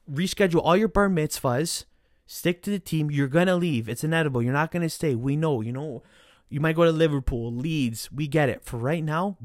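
loud, heated lecture to the players; angry rant. Real, not acted. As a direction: scold them hard and fast. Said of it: "That's my, kind of my little bit of rant".

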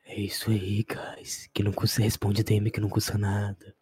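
deep joke voice. Acted. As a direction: drop way down and drag it. Same joke voice continues.

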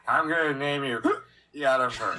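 lightly acted drunk, slurring the name; a hint of a drunk naming someone; drunk namer. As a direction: play it tipsy, breaking on the name. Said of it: "it sounds like somebody was drunk".

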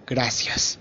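dry, clipped thanks; curt. A narrator's reading. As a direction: say it coldly and short. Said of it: "con un seco".

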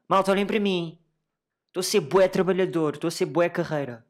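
imitating a self-promoting LinkedIn poster; LinkedIn show-off. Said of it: "um feed de pessoas do tipo".

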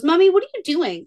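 put-on high curious toddler voice; little girl voice. Daughter asking mom about eyebrows, high childlike voice. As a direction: ask it like a small child watching mom. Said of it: "Reagan goes".

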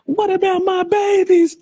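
high, slow plea of a dying mother; mock dying mother. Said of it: "she was like".

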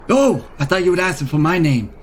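put-on lightly done Queens wise-guy accent; a small creature talking like a guy from Queens; light New York Queens accent, a touch brash. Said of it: "I'm from Queens".

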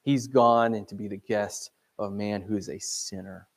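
disgusted groan, then a low grumble; mild acted grumbling under a reading. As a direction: grumble it like a disapproving onlooker. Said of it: "they grumbled".

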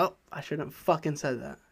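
quiet retold thought, mostly to himself; muttered regret. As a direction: say it under your breath, kicking yourself. Imagined regretful thought to wife.

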